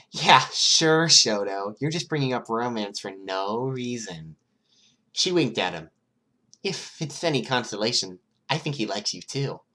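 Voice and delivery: put-on high, loud teasing girl's voice; Toga teasing. A narrator's reading. Toga's voice in the read story.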